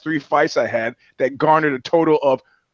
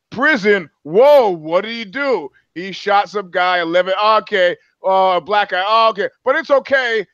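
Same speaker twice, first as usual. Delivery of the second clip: mock alarm; 5 semitones higher than usual. Voicing people reacting to prison excuse.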